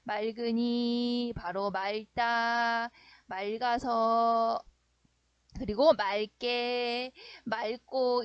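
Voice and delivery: very slow, each word form stretched out; drawn-out demonstration. Shown as a demonstration. Teacher showing students how the word changes, slow and drawn out. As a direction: list each verb form slowly, holding the endings. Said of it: "어떻게 변하는 거야?".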